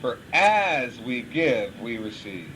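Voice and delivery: slow, weighty repeat of For as we give, we receive; slow emphatic repeat. Shown as a demonstration. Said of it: "Did you hear that?".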